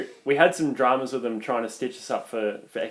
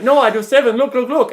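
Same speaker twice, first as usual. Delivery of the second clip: higher, louder mock Vietnamese accent; insistent, hammed-up Vietnamese accent; attempted Vietnamese accent; 10 semitones higher, 5 dB louder than usual. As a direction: imitate an arguing driver with a faked Vietnamese accent. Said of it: "I'm trying to do the accent".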